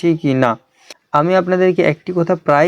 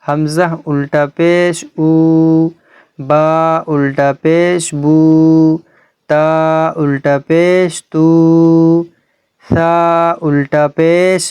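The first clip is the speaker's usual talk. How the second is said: slow spelling drill; slower than usual. Shown as a demonstration. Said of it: "এখানে কীরকম পড়বো আমরা?".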